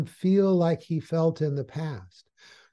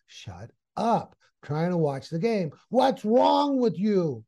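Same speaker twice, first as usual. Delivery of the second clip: angry dad; 4 semitones higher, slower than usual. Acted. Dad to son while watching the game, angry. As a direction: scold like a fed-up dad, stretching the last question out. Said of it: "with that angry look and says".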